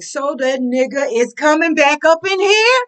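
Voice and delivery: furious disbelief; outraged question. Retold or imitated.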